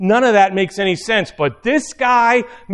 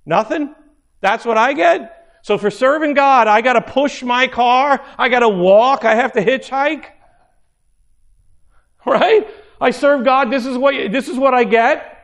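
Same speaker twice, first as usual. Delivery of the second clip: higher-pitched, incredulous questioning; indignant complaint; 5 semitones higher than usual. Acted. Stranded believer complaining about serving God, indignant. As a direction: protest each hardship as an outrage.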